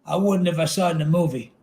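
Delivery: ordinary delivery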